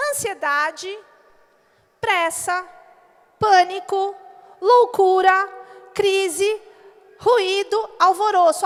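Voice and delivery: a shouted list of troubles; emphatic list. Acted. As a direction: preach each word like a blow. Preacher listing city troubles.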